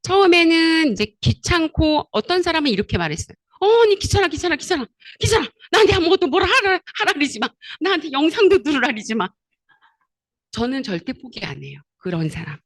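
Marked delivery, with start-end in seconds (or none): 3.6-9.3 annoyed whining. Retold or imitated. Friend's annoyed complaint, acted.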